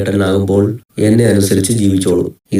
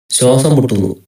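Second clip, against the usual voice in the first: raised, strained gasping voice; gasping for air; 4 semitones higher than usual. Acted. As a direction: act short of breath from the smoke. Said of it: "എനിക്ക് ശ്വാസം മുട്ടുന്നു". (ശ്വാസം മുട്ടുന്ന പോലെ കിതച്ചുകൊണ്ട്)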